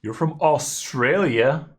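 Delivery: surprised question. Real, not acted. Streamer reads the opponent is from Australia, slow surprised question. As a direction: ask it with slow, genuine surprise. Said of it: "That was the worst".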